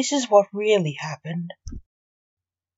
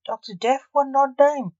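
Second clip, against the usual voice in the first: wife puzzled; 6 semitones higher than usual. Acted. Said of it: "the wife of the dead man said".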